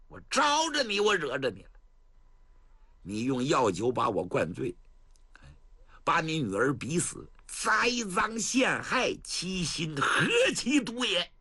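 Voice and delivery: angry. Acted. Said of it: "他眼睛都冒火".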